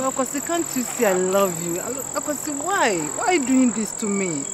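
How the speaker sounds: pleading. Acted. Woman begs rejecting lover.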